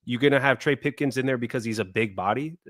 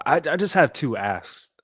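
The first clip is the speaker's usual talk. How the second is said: pissed off; 4 semitones higher than usual. Real, not acted. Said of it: "I can't even talk".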